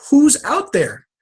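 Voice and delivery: high call into the light. Retold or imitated. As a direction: shout a question into the spotlight.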